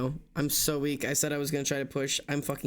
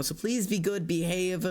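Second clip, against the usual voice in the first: ordinary talk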